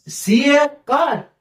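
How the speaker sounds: mock excitement. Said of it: "wow!".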